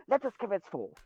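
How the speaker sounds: lightly hammed-up English pomp; mock English accent. Riffing on the British meme, mock English accent. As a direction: put on a comic English accent. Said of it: "I've honed my English skills".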